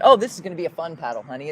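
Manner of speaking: quick, breezy retold optimism; lightly acted eagerness, rattled off; mock cheerful optimism. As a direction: imitate yourself cheerily reassuring your husband. Repeats her optimistic words to husband.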